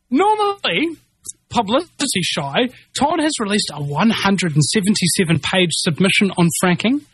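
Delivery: reading an article out in a steady news voice. Acted. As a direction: read it like a straight news report. Reads a news article aloud.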